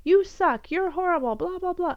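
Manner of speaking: high, loud mock insults, hammed-up; mock angry outburst. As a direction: spit out the insults like a petty fight. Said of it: "instead of getting angry and defensive and be like".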